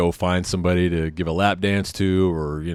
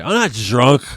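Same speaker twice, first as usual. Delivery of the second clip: loud, higher mock-drunk denial; slurring drunk; 5 semitones higher, 6 dB louder than usual. Drunk buddy denying he is drunk, slurred loud protest. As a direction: slur it indignantly as a drunk would. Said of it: "he's slurring speech".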